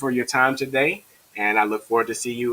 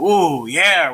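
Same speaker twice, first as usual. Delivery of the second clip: acted pupil cheer, high and loud; mock student excitement; excited kids; 6 semitones higher, 6 dB louder than usual. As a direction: play a kid pleased with progress. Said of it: "now the kids are like".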